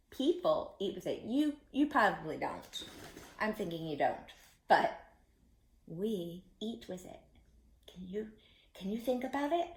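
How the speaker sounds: lightly voiced frog puppet; Froggy giving clues. Froggy giving the children a clue, playful. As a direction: play the frog teasing out a clue.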